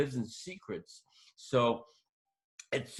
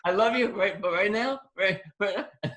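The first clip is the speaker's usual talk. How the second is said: tense and pleading; 8 semitones higher, 4 dB louder than usual. Retold or imitated. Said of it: "I'm like".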